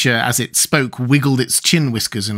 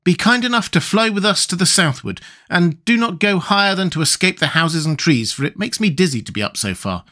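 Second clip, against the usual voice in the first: lightly voiced boy, higher; Tip's boy voice; 7 semitones higher than usual. A narrator's reading. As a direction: explain it in a higher boy's voice. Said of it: "said Tip, addressing the Gump".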